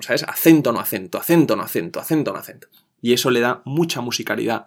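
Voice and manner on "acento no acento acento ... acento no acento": "Acento" punched, "no acento" dropped, in a steady beat; alternating stress. Shown as a demonstration. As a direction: chant the pattern evenly, "Acento" strong, "no acento" weaker. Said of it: "una sílaba acentuada y otra sin acentuar".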